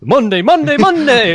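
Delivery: booming promo announcer; monster truck ad. Pretend. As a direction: yell it like a truck rally ad.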